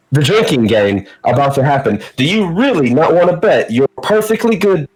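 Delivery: a lightly voiced goblin hawking bets; mild hammed-up goblin sales pitch; goblin showman pitch. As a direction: work the crowd like a carnival barker. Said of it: "arms out, you know, give everybody attention".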